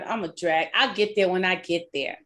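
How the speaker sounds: 1 lazy worker. Retold or imitated. Voicing a complacent worker.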